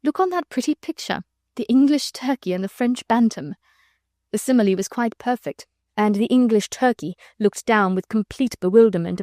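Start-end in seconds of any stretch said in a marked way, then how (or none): 0.0-3.6 merry, laughing. Acted. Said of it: "one of her merry, infectious laughs".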